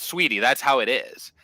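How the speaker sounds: easy, sure of yourself, with a smile in the voice; totally confident, nice. Retold or imitated. Telling a buddy's girlfriend how it is, lightly confident and smiling. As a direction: say it like a plain fact, smiling. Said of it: "say it just like that, where you just totally believe it".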